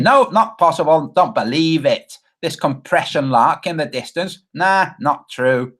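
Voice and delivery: a light mocking Australian accent, dismissive. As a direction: imitate an Aussie brushing it off in a casual Australian accent. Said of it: "He's Australian. That's kinda how he talks".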